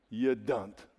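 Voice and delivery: put-on light Cuban accent on "You dunt"; a hint of a Cuban accent; Ricky Ricardo. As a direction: mimic a sitcom Cuban husband's accent, lightly. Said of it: "as Ricky Ricardo would say".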